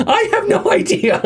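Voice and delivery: high, laughing, sarcastic; sarcastic breakdown. Retold or imitated. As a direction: say it like you've given up. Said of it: "Like, complete breakdown".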